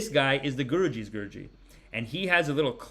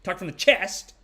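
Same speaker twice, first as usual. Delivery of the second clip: mock manly voice, projected loud; manly chest voice; 6 semitones higher, 6 dB louder than usual. Comic mimicking how the men are taught to talk, loud and manly. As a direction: imitate a man pushing it out from the chest. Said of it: "they teach him talk like a man".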